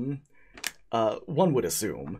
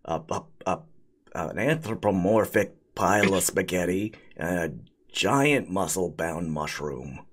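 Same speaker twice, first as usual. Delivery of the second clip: spaghetti golem voice; 4 semitones lower than usual. Acted.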